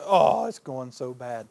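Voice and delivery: mopey complaint. Shown as a demonstration. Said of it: "Sometimes we're the".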